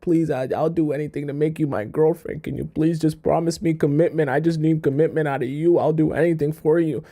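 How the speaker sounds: lightly imitated desperate pleading; mildly hammed-up begging; mock begging. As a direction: run on as a pleading suitor would. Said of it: "He's literally begging".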